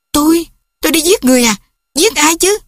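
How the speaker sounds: high, fast, stunned cry; shocked disbelief. Acted. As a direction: gasp it out in disbelief. Daughter shocked at murder accusation.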